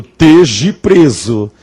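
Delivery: slow, drawn-out rustic arrest line; comic-book arrest. Retold or imitated. Comic-book character arresting Chico Bento, mock drawn-out command. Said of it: "diria pro Chico Bento".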